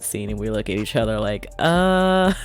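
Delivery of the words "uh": high, playful teasing to her husband. Retold or imitated. To her husband at the movie, high playful teasing. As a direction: sing it up high like an in-joke.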